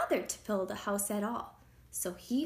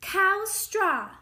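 loud, higher storybook cow; 10 semitones higher, 9 dB louder than usual. A narrator's reading. Cows eat up the straw house, calling out. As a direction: call out as a hungry cow.

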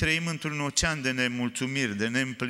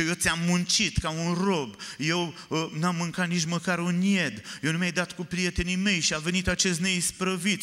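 reproachful; 4 semitones higher than usual. Acted. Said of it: "începe să-i aducă reproșuri".

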